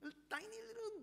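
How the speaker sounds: squeaky high little voice for a tiny bit; a mock-dainty high squeak. Shown as a demonstration. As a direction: pitch it way up, small and squeaky. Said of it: "a bit more emotional than Job".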